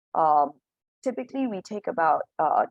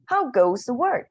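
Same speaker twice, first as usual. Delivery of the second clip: slow, louder and higher call from the bed; farmer calling out; 7 semitones higher, 5 dB louder, slower than usual. Acted. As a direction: call lazily from bed, drawn out. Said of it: "called the farmer".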